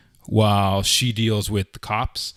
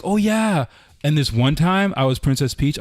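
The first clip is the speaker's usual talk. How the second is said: put-on cheerful kid; 5 semitones higher than usual. Voicing cheerful four-year-old.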